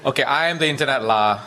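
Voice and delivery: light Singlish with a tacked-on lah. Shown as a demonstration. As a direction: Singlish accent, ending on lah. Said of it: "In Singlish, please".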